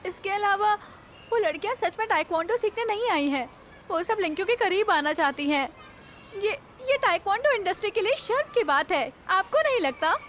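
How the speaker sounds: mildly heated argument; angry objection. Acted. Colleague scolding studio owner over his plan, mildly angry. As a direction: object with a touch of anger. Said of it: "तुम इतने गुस्से में क्यों हो?".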